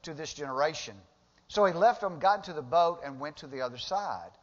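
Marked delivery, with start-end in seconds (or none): 0.0-1.0 raised, higher preacher's voice as Jesus; Jesus rebuking. Acted. Jesus answering the Pharisees, raised and high. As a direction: proclaim it up high and loud. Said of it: "He said".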